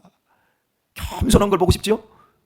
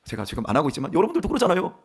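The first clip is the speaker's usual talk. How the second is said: ordinary delivery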